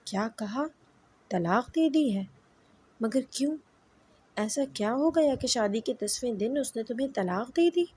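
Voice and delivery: mother reeling at news of divorce; shocked mother. A narrator's reading. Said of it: "یہ سن کر میری ساس گرتے گرتے بچی".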